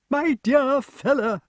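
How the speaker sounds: high, drawn-out remonstrance; getting excited. A narrator's reading. Pellinore remonstrates with Grummore, excited. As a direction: protest in a high, eager voice. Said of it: "getting excited again".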